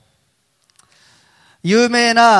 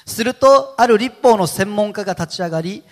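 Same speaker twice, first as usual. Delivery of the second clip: scripture reading; 3 semitones higher, 5 dB louder than usual. Acted. Reads scripture aloud.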